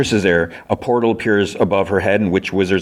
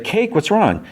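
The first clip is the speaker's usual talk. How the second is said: high-pitched, worried question; retold concern; 13 semitones higher, slower than usual. Fiona sees Cake come through a portal, acted alarm. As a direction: act out an alarmed friend.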